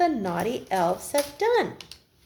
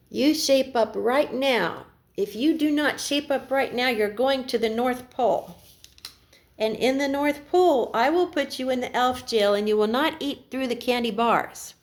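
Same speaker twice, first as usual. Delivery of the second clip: stern Santa threat; 3 semitones higher than usual. Acted. Santa warning the elves about elf jail, mildly stern. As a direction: lay down the law to the elves.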